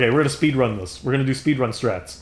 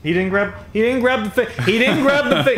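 frustrated; 8 semitones higher than usual. Real, not acted. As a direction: build exasperation over the failed grab. Gamer annoyed at character.

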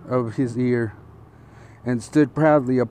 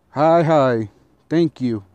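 quick, louder burst of eager thanks; 3 semitones higher, 5 dB louder, slower than usual. Acted. Hungry fox thanking the mouse, eager and louder. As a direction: jump at the offer, gushing.

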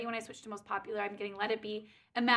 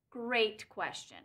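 "Great question" said slowly and lower; slow drawn-out; 4 semitones lower, 4 dB quieter, much slower than usual. Shown as a demonstration. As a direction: stretch "Great question" out with a dry pause.

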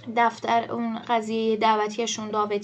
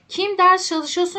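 slow teacher read; 7 semitones higher, 6 dB louder, slower than usual. Shown as a demonstration. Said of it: "teacher reading Turkish slowly".

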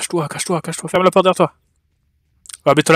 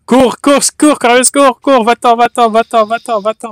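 urgent urging; 4 semitones higher than usual. Real, not acted. Urging teammate to flee.

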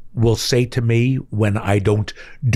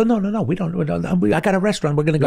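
higher-pitched, retold brushing-off; mock protest; 5 semitones higher, much faster than usual. Dad overrules hungry kids in Paris, retold protest.

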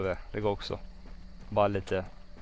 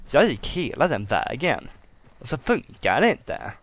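emphatic grumbling. Real, not acted. Player restates the wasted trek, grumbling emphatically. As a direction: grumble it out, leaning on each stressed word. Repeats complaint, now wearier.

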